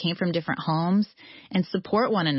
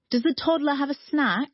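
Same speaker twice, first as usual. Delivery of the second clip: put-on light British accent, a little higher; 7 semitones higher than usual. British mentor offering the toddler a snack, lightly accented. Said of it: "she had a British accent".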